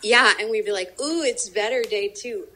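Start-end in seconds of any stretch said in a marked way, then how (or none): 1.0-2.5 mildly delighted ooh, higher start; impressed little ooh, recalling a trip; pleasantly surprised, lightly acted; retold delight.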